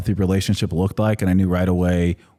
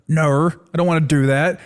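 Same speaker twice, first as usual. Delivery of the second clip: mock-cross Australian accent, pitched up; mad Australian accent; 7 semitones higher than usual. Man imitating his mad partner refusing, Australian accent. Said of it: "like, mad and she's like".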